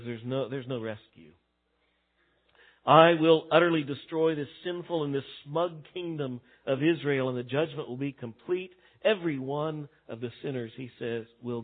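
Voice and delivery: low and grave, like a final verdict; voice of God pronouncing doom. Retold or imitated. Preacher voicing God's verdict, low and grave.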